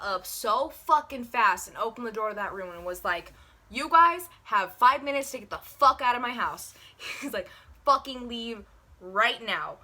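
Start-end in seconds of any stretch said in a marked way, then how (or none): 3.7-6.7 loud, raised, angry order; flipped-out brother. Retold or imitated. Brother kicking guests out of his house, angry. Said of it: "fucking flipped his shit". 7.9-9.8 slow, emphatic angry order; flipped-out brother. Retold or imitated. Brother ordering guests to leave, angry. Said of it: "fucking flipped his shit".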